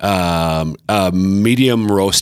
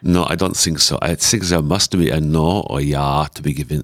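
put-on German accent; 2 semitones lower than usual. Guest answering whether he needs a trigger word, German accent.

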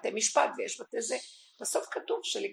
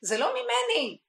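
high, loud, booming divine rebuke; God shouting at his people; 12 semitones higher, 6 dB louder than usual. Acted. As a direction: cry out as God rejecting the blame. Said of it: "השם אומר".

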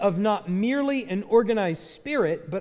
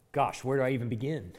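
laughing mock dismay; 6 semitones lower, 5 dB quieter, faster than usual. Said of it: "now you're probably like".

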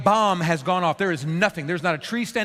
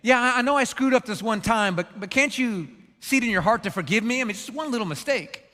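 mock Pharaoh; 3 semitones higher than usual. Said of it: "he's saying".

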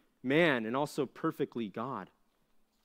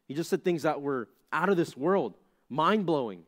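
emphatic preaching; 4 semitones higher, 5 dB louder than usual. Real, not acted. Preacher building to emphatic peak.

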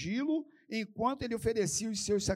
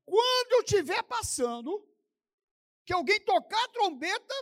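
brief the plotters in a raised voice; acted leader laying out a signal; conspirator giving orders; 11 semitones higher, 5 dB louder than usual. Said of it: "e ele falou assim, ó".

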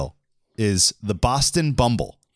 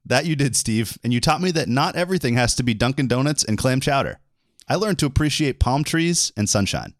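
higher, stagey sketch read; lightly hammed-up reply; scripted buddy banter; 4 semitones higher than usual. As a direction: play the cheesy co-host. Reads scripted part to co-host.

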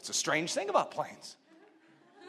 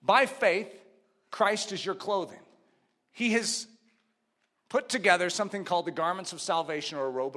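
slowed down; 3 semitones lower than usual. Real, not acted. Preacher carefully explaining putting on Christ, slowed down. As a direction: ease off and space out the phrases. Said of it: "let me slow down a little".

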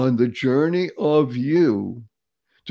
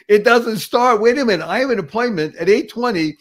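mock panic; 5 semitones higher than usual. Acted panic car won't start.

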